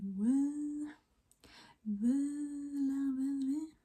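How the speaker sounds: put-on slurred like you're really drunk. Shown as a demonstration. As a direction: slur the word völa. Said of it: "just act like you're really drunk".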